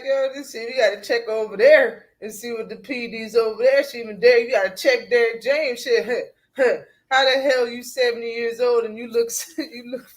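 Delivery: laughing retelling. Retold or imitated. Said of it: "Bill was like".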